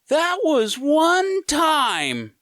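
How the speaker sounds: slow, very high, loud yell; long, high shouted comeback; hollered retort from afar. Retold or imitated. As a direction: stretch every word in a long holler back. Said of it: "his response".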